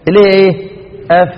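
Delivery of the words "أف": "أف" with the f held on; fa articulation demo. Shown as a demonstration. Teacher showing lip against upper teeth, held "أف". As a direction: blow out a long f on "أف". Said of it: "بص لي كده".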